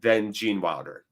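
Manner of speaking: slow, deliberate phrases with pauses between; emphatic declaration. Real, not acted. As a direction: start loud, then settle down to a measured close. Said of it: "just so everyone understands".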